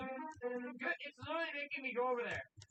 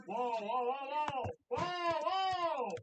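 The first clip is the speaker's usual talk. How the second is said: startled shouting; 3 semitones higher, 5 dB louder, much slower than usual. Real, not acted. Giant meatball rolling at him.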